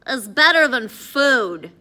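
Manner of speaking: loud, slow, disbelieving question; incredulous. A narrator's reading. Hungry Eddie asking Addison what beats food, incredulous. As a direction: lean hard on each word, baffled and loud.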